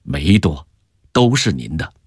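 low, friendly and understated; said with a smile. A narrator's reading. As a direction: smile lightly as you reassure. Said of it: "笑着说".

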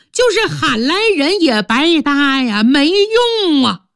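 a wife turning the blame back; stepmother's retort. Acted. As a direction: stepmother rebuking her husband, indignant.

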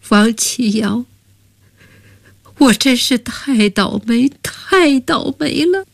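crying lament. Acted. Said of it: "哭得喘不过气来".

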